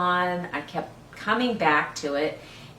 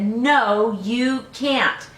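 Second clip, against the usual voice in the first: firm grandpa, a bit louder; grandpa saying no; 5 semitones higher, 5 dB louder, much slower than usual. Acted. Grandpa turning down the boy, firm. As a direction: refuse like a stern grandpa.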